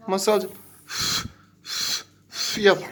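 slow, whispered puffs of breath; whispered blowing demo. Shown as a demonstration. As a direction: breathe out slowly like blowing on tea. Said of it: "bak şöyle yapıyoruz".

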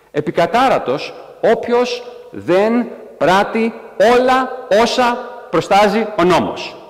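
slow, high, drawn-out solemn decree; solemn proclamation. Acted. Preacher proclaiming the law's final curse, slow and solemn. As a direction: intone it like an ancient law read aloud. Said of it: "ο νόμος λέει".

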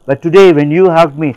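half-acted tearful confession; lightly voiced weeping witch doctor; retold crying woman. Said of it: "That person started crying".

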